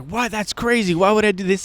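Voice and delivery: imitated scandalized refusal; retold indignation. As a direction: balk at a ridiculous suggestion. Mimicking shoppers' shocked reaction.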